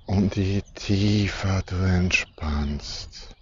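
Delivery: breathy whispered aside. Acted. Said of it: "whispered line in meditation".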